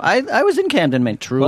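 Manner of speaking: high-pitched mocking parrot of someone; exaggerated, high mock amazement; mock imitation. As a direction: mimic their small talk way up high. Mock-quotes the others' chat about Camden.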